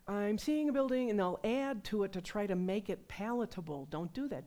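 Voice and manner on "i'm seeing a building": eager claim. Retold or imitated. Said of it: "they'll say".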